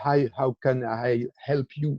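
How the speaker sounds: slow English with a French accent. Shown as a demonstration. Quoting the default English chat greeting to trainees, French accent. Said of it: "mon accent".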